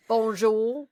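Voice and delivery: hammed-up bad French accent; mock French. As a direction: put on a cheesy, comic French. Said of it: "she speaks French ... Not like me".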